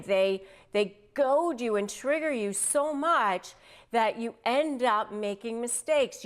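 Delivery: ordinary talk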